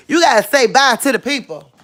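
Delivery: high, quick call to a pet. Real, not acted. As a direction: coax the dog back with a holler. Calling out to dog.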